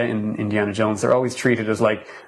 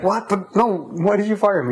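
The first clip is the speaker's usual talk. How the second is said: high-pitched, imitating an incredulous protest; mock disbelief; 9 semitones higher than usual. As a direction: jump up high in mock shock, still laughing it off. Retold movie dialogue, incredulous character.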